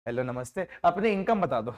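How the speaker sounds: a hint of a sheepish surveyor; mock polite greeting. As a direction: play it as an awkward surveyor, laughing. Mock polite door-to-door ask.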